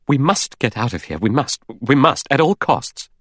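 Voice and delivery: violent urgency. Acted. Doctor demanding they escape the island, violently urgent. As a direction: press each "must" with rising desperation. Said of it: "Doctor Armstrong said violently".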